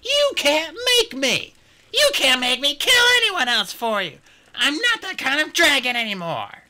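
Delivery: put-on high defiant young dragon; defiant shout. A narrator's reading. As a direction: stand your ground, loud. Peril defiant.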